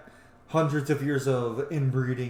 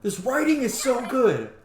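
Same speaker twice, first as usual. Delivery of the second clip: loud, high-pitched squeal of praise; gushing excitement; 11 semitones higher, 6 dB louder than usual. Real, not acted. Player overwhelmed by good game dialogue, gushing loudly. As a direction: cry it out, thrilled by the writing.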